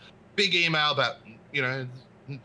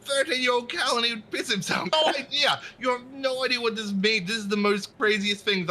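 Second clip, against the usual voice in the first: excited gushing; 11 semitones higher than usual. Retold or imitated. Retelling huge excitement over pass.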